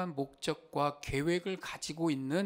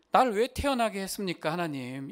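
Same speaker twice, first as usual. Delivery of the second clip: 원망; 3 semitones higher, 4 dB louder than usual. Retold or imitated. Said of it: "이렇게 막 원망하고 있는데".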